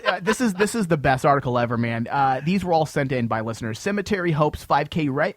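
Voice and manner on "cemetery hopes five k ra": headline breaking into laughter; real laugh cutting off the last word; laughing while reading. Real, not acted. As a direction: try to read it and crack up. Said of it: "can't even get through this without laughing".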